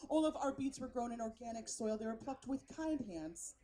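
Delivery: lightly voiced earnest food-culture server; precious hipster waiter. Waiter telling diners about the beet special, lightly precious. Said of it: "some guy named Xander".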